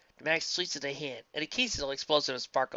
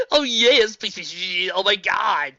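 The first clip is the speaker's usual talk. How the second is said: eager begging; 6 semitones higher, 12 dB louder, slower than usual. Acted. Character begs eagerly.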